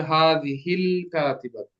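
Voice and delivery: হাযিহিল কাতিবাতু drawn out slowly; slow dictation. Shown as a demonstration. Teacher giving students the Arabic answer, slow dictation. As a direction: stretch the long vowels in হাযিহিল কাতিবাতু.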